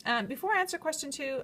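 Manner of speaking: lisping through new braces. Real, not acted. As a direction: speak with a slight braces lisp. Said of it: "my lisp".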